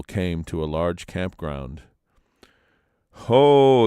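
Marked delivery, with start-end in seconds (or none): 3.3-3.8 louder, high "Ho!"; a crowd's loud startled cry; loud exclamation. A narrator's reading. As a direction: call out in surprise. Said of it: "exclaimed the people".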